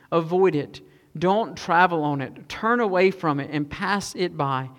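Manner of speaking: slow, measured reading of a proverb; scripture reading. Acted. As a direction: read it out deliberately, with pauses between phrases. Reads Proverbs aloud to congregation.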